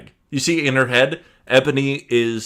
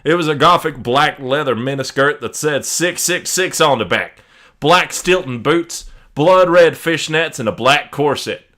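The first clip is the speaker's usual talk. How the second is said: fake Italian accent; 5 semitones higher, 4 dB louder than usual. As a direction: read in a put-on Italian accent. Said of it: "if you wanna stop the accent".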